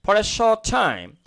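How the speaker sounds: short said the British way, rounded o; slow British read of short; British English demo of short; British accent. Shown as a demonstration. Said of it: "এটা যদি আমি ব্রিটিশরা বল".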